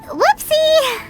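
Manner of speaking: high, sing-out sheepish admission; sheepish oops. Acted. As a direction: pitch it way up, caught in a mistake. Embarrassed at wrongly accusing him.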